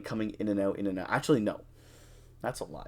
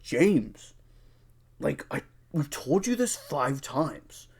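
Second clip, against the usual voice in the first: slow, higher, over-patient voice; patronizing explanation; 4 semitones higher, 3 dB louder, slower than usual. Retold or imitated. Friend explaining the wrong bus to James, slow and patronizing. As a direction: spell it out like to a child.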